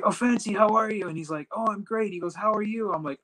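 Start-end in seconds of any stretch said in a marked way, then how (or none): 0.0-1.1 high-pitched, delighted hello; imitated surprised, friendly greeting; retold glad greeting. Retold happy greeting of the supervisor. 1.5-2.1 retold friendly reply. Retold friendly greeting exchange. 2.3-2.9 retold friendly greeting.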